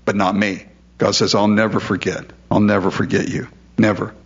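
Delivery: low, steady vow; firm promise. Retold or imitated.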